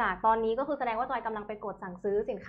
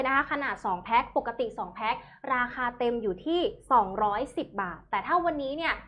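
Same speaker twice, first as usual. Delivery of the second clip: thai live seller. Acted. Host pitches product prices.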